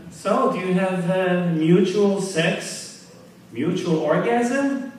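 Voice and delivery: slow, drawn-out ditzy question; ditzy girl voice. Acted. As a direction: play the dim girlfriend, slowly. Blonde girl asks a friend.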